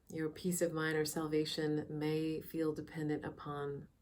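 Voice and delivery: soft, unhurried meditation guide with long pauses; calm, measured meditation voice; guided meditation. Real, not acted. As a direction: ease listeners into quiet reflection, leaving space between phrases.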